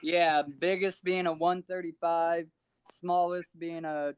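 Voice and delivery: muffled distant phone voice; faint, far from mic. Real, not acted. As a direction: speak away from the phone. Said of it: "Can't hear you".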